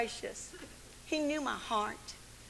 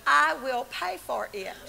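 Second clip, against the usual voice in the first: blurted out; 6 dB louder than usual. Retold or imitated. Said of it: "I had an out-of-body experience".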